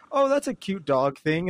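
light acted delight at something cute; mildly delighted reaction. Acts out delighted first reaction to hat.

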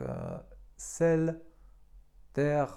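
"sel" and "terre" with an open E and a French R; teacher showing plain E; French pronunciation. Shown as a demonstration. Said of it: "tak jak w słowach".

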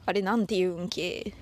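casual Toyama-dialect question, ending on a clipped けdialect ending. Shown as a demonstration. Host demonstrates a Toyama dialect question to listeners, in Toyama dialect. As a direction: ask it the local Toyama way, the stressed ん of 言うん leading into け. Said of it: "あれはなんて言うんですか？みたいな意味".

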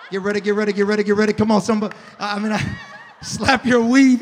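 booming imitation of a star preacher; T D Jakes. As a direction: preach it like a megachurch revival, full force. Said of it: "It was a T D Jakes reheat".

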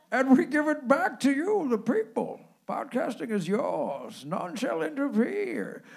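a lightly voiced villain making grand promises; mock-grand speech in the manner of a masked villain; Bane voice. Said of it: "this is the Bane accent one".

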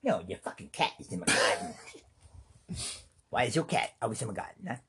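lightly voiced angry neighbor. Irate neighbor yelling about the cat in the garden, lightly played. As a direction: confront him over the cat, half-playful.

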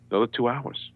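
ordinary talk, nothing marked

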